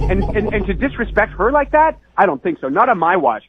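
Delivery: mock-grave devotion; fervent defense. Real, not acted. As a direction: plead for her honour, heated. Passionate defense of Ina Garten.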